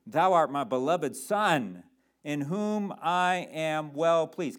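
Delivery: slow, stately proclamation from heaven; voice of God. Acted. God speaking from heaven at the baptism, solemn proclamation. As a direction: stretch it out as a solemn divine declaration. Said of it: "the voice of God that calls out from heaven".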